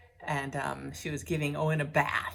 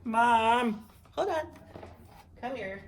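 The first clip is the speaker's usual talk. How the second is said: pet's voice; 6 semitones higher, 5 dB louder, slower than usual. Pretend. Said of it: "He's sitting there like".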